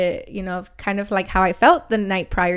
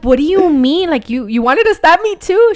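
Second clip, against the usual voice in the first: loud, higher incredulous questioning; retold shocked question to her friend; shocked disbelief; 7 semitones higher, 8 dB louder than usual. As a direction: demand it, half freaked out.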